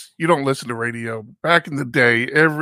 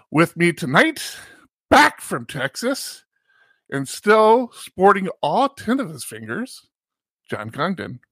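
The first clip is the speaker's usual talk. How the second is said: excited intro; 5 semitones higher than usual. Real, not acted. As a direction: pitch jumps up for the intro. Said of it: "you got nice and excited there at the end when you introduced me".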